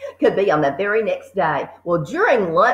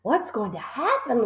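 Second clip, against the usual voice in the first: whisper; 4 semitones higher, 6 dB quieter than usual. A narrator's reading. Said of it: "Lavender whispered".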